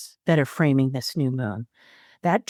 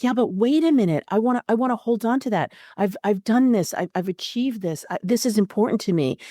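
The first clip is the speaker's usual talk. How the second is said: defensive sun; 5 semitones higher, faster than usual. Acted. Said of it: "the sun is like".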